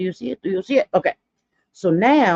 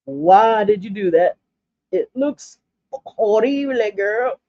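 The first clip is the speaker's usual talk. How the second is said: scolding herself; 3 semitones higher than usual. Retold or imitated. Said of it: "I'm like".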